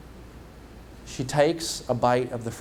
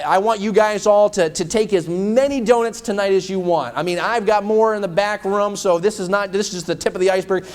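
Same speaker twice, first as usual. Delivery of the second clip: a higher, louder hosting voice; lightly voiced pastor; 4 semitones higher, 3 dB louder than usual. Pastor inviting the church to eat donuts, higher and louder. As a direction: play the host offering donuts. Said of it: "he said".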